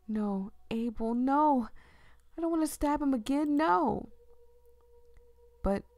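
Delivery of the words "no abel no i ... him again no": rising frantic no, faster; panicked protest. Acted. Character resisting in panic.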